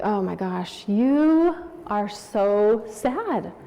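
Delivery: slow right down to console; tender sympathy. Retold or imitated. Mother sitting beside her sobbing daughter, tender sympathy.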